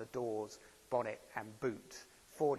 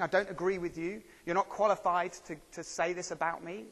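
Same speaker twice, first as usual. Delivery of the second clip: mock indignant protest; 5 semitones higher, 4 dB louder than usual. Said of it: "like we might to a doctor".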